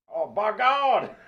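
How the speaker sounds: very high, excited announcer exclamation, like ringside action calls. Naming a favorite play-by-play announcer, then doing a Jim Ross impression. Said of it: "do it with the JR impression".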